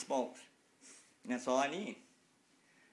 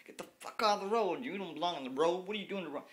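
mock angry driver; 4 semitones higher, faster than usual. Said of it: "start saying".

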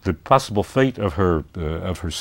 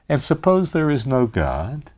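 taunting; 5 semitones higher than usual. Retold or imitated. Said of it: "he says".

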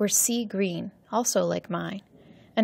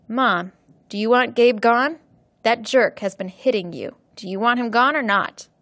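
louder, pressing questions; urgent demand; 3 semitones higher, 6 dB louder than usual. Acted. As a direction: push her for an answer. Son confronting mother about abuser.

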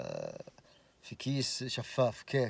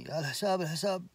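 retold calling out; 4 semitones higher than usual. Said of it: "راعي البقالة لحقني".

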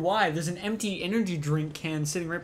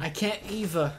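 put-on Cockney accent; 3 semitones higher than usual. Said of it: "a really thick Cockney accent".

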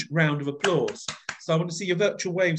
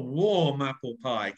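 warm voice. Shown as a demonstration. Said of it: "warm qualities".

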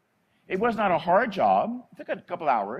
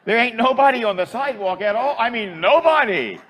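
laughing; 6 semitones higher, 7 dB louder than usual. Real, not acted. Laughing at the absurd scene.

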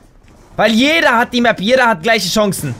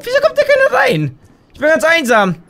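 mock lonely whine; 6 semitones higher than usual. Lonely player mocks empty lobby.

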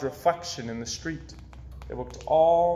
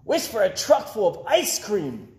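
mild shout; 6 semitones higher, 3 dB louder than usual. A narrator's reading. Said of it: "shouted Eddie".

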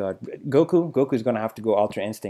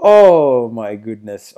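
"Oh my goodness" drawn out very slowly and louder, stretching the "oh"; slow awestruck oh my goodness; 2 semitones lower, 6 dB louder, much slower than usual. Real, not acted. Overwhelmed by the trailer, a slow loud drawn-out "oh my goodness". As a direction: stretch out the "oh" in awe. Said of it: "I'm just so hyped".

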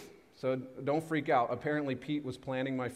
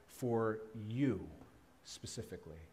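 hushed; 3 semitones lower, 8 dB quieter than usual. Real, not acted. Hushed sermon emphasis.

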